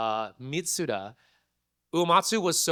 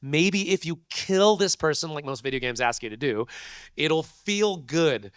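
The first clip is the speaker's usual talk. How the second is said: pleading; 3 semitones higher, slower than usual. Retold or imitated. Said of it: "You're like".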